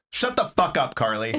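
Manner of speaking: Aaron. Acted. Impersonating a co-host to another, mock scolding. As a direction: scold playfully in imitation. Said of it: "an impression of Aaron".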